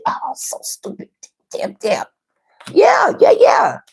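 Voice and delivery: wheezing through laughs, barely voiced; breathless laughter. Real, not acted. Reader wheezing with laughter at the spread. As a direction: laugh so hard the words go airless.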